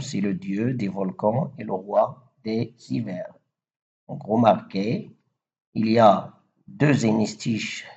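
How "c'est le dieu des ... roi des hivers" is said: verse recited as an example. Shown as a demonstration. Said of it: "Par exemple".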